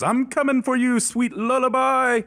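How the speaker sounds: high-pitched orc scream; screaming young orc. Acted. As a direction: shriek it like a crazed young orc. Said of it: "and screams".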